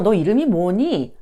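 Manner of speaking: ordinary talk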